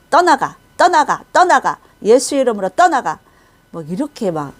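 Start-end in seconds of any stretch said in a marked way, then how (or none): 0.1-3.2 loud, high, repeated command; raised-voice exorcising rebuke; warfare prayer. Retold or imitated. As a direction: cast it out with forceful shouts. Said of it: "대적 기도를 가리키고 있더라고요".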